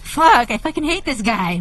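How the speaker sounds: exasperated, grudging cursing; pissed off. Retold or imitated. Speaker recalls agreeing with a pundit they dislike, pissed off. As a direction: curse in mild, reluctant annoyance. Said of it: "kinda pissed off".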